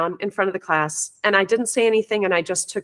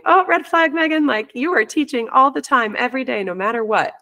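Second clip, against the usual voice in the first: self-alert; 4 semitones higher than usual. Retold or imitated.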